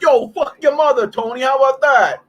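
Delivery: high, heated taunt; retold insult, half-yelled; mock angry retort. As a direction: fire it back like a trash-talking comeback. Retold insult to opposing player.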